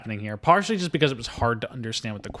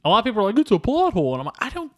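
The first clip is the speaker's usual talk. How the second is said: exasperated rant; 8 semitones higher, 3 dB louder, faster than usual. Real, not acted. Exasperated rant about plot hole.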